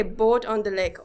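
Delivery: long round o in Boat on the lake; Minnesotan accent. Shown as a demonstration. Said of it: "the line that you get your accent from".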